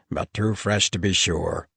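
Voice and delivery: gnoll creature asking in sudden concern; worried gnoll. A narrator's reading. Gnoll learning a gnoll is injured, alarmed.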